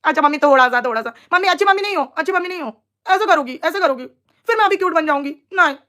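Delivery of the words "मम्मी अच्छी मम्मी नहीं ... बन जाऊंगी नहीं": imitating a sulking child. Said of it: "वो ये कर रही थी".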